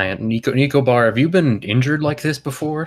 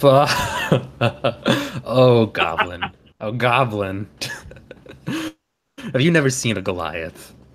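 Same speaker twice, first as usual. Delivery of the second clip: very slow, swooping, belly-laughing through the words. Voicing Jarko, who laughs at a goblin: laughing while talking. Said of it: "Jarko lets out a big belly laugh".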